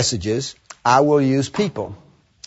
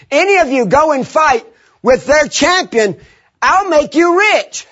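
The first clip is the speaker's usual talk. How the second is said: king's offer; 9 semitones higher than usual. Retold or imitated. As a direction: play the king tempting the soldiers. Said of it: "the king offers three things".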